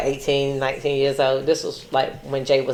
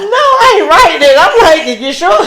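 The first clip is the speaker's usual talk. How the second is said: teasing; 10 semitones higher, 6 dB louder, slower than usual. Real, not acted. Teasing friend laughingly.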